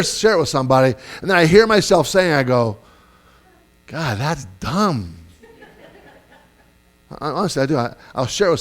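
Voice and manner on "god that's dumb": slow, drawn-out dismay at yourself; self-deprecating realization. Retold or imitated. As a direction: let the verdict sink out slowly. Reacting to his own idea, self-critical.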